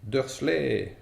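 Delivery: a high, loud yell of a name. A narrator's reading. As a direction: shout him out of hiding. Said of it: "hurla-t-il".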